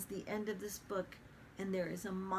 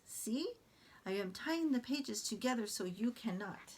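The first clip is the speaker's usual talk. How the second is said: Grover voice. Acted. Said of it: "Grover is very exaggerated".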